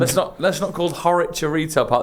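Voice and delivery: laughing protest. Real, not acted. Protesting friend's description.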